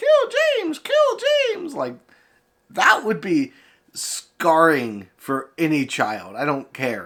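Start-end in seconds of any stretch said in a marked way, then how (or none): 0.0-1.7 very high-pitched toy-like talking-doll voice. Describing a kid hearing Elmo in a dark room at night: Elmo voice. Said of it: "you just hear Elmo and that voice that he does".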